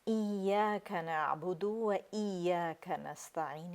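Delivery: ایاک نعبد recited slowly; slow recitation. Shown as a demonstration. Teacher reciting ایاک نعبد slowly. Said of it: "یہ ہم صحیح پڑھتے ہیں".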